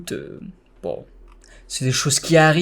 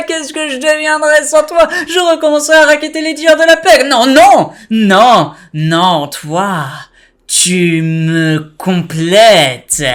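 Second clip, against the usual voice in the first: higher, louder cartoon villain cackling; Joker voice; 10 semitones higher, 7 dB louder than usual. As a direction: taunt him with a joking grin. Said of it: "j'ai fait une voix de Joker".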